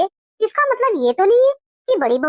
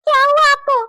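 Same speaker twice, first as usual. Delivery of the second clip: higher, alarmed question; 4 semitones higher than usual. Acted. Wife to her husband who is suddenly unwell, alarmed. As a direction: ask in sudden worry for him.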